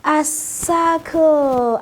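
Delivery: A circle, said slowly and drawn out, word by word; slow model word. Shown as a demonstration. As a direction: spell out A circle slowly for the class.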